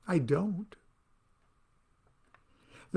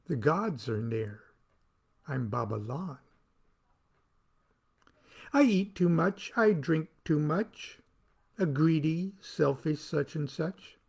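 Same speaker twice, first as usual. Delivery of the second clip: poem recitation. Acted. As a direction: recite it like a solemn chant. Recites his own poem.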